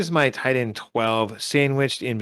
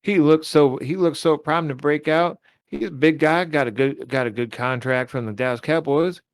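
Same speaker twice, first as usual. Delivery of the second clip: a lightly put-on Texas twang, half-joking; Texas accent. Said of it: "Does it sound like a Texas accent".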